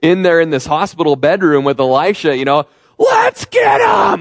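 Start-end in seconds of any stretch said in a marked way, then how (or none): 3.0-4.2 mock shrill, very high, rough battle cry. Imagining the king shouting before striking: imitating a gladiator-style war cry. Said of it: "gladiator style s-, war cry".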